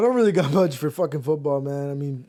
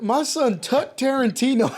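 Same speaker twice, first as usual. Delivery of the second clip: mock shout; 6 semitones higher than usual. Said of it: "He shouted out".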